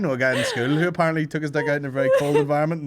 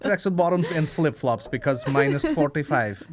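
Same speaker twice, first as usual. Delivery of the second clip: mock Russian; 3 semitones higher than usual. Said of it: "It's so Russian to be like".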